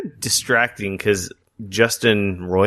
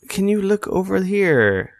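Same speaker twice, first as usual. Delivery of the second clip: imitated soothing tutorial voice, pitched higher; mock-serene instructor, higher than usual; calming guide; 6 semitones higher than usual. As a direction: gently talk a newcomer through it, lightly put on. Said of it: "very calming voice".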